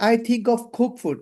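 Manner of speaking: slow demo of the incorrect "I think of cook food"; slow teacher demo of the wrong form; wrong example. Shown as a demonstration. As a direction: model the mistake "cook" without -ing, slowly. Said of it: "তাহলে কিন্তু বাক্যটা ভুল হবে".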